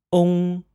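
"Ong" with oh as the letter O, into ng; Mandarin final ong. Shown as a demonstration. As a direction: model "Ong" clearly. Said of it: "Repeat after me".

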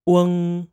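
"weng" with a short uh vowel into ng; Mandarin final weng. Shown as a demonstration. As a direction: model "weng" slowly. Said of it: "Let's repeat that".

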